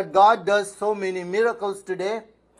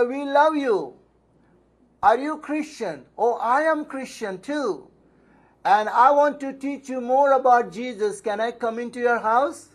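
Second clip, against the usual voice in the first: a higher, lightly sugary doorstep voice; sweet loving visitor; 4 semitones higher than usual. Retold or imitated. Preacher mimicking Jehovah's Witnesses at the door, mildly sweet. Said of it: "They come very lovingly".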